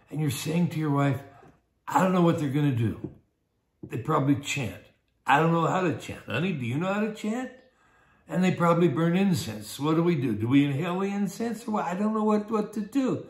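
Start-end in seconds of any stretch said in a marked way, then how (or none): 1.8-13.2 mildly nervous worrier, acted. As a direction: play a touch of rising worry to your wife. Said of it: "you're really nervous about this".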